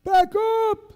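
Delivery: slow, high, loud shouted command; sergeant's order. Retold or imitated. Master sergeant ordering lieutenant to the ramp, shouted. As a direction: bellow it slowly over the wind.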